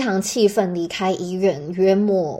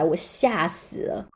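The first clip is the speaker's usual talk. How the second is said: normal talking voice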